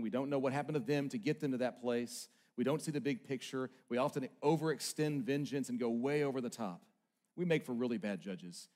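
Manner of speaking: intimate preacher voice. Acted. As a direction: draw the room in close.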